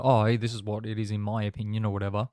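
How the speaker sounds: chewing while talking; mouth full. Real, not acted. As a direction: talk through a mouthful. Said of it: "Sorry for loudly chewing into the microphone".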